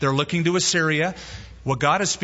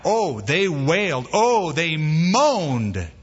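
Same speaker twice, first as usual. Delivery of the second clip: drawn-out hammed-up moan, very slow; mock moaning; much slower than usual. Preacher mocks Israel's insincere wailing, in a drawn-out moan. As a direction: groan the words out slowly, mocking the wailers.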